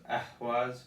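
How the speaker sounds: Ehwaz slowly, leaning on the E and a breathy H; stress on E and H. Shown as a demonstration. Teacher contrasting the two rune names, stressed E and H. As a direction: pronounce Ehwaz with weight on the E and H. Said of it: "the emphasis is on the E and the emphasis on the H".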